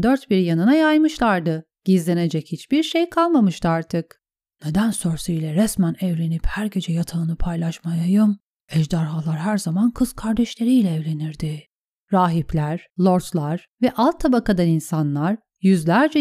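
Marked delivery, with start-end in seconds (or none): 4.6-11.6 lightly voiced private musing, hushed; hushed inner monologue; inner thought. Reads a character's inner thoughts.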